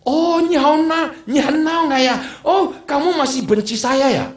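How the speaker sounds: high, slow put-on voice of an old father, pleading; father's voice. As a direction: plead like an aging dad. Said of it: "Papa bilang apa?". (suara ayah tua yang tinggi dan pelan)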